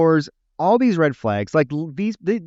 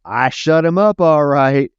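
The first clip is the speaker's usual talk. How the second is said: mock sinister Vincent; 2 semitones higher, 8 dB louder than usual. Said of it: "And Vincent's like".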